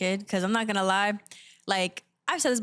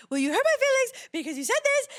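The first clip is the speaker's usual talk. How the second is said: put-on rehearsed kid complaint; 13 semitones higher than usual. Imitating her toddler self accusing mom, high teary whine. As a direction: wail it like a little kid with a story ready. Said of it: "all the things I'm gonna say to her".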